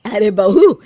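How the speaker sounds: loud call across the house. Acted. Mother-in-law calling her bahu from outside, a loud call. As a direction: call out to the bahu over the distance.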